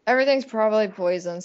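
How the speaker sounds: a lightly done Alan Rickman. Retold or imitated. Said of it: "trying to do an Alan Rickman".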